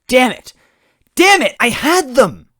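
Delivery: very high, loud furious shout. Acted. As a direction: rage at the escape. Goombella furious.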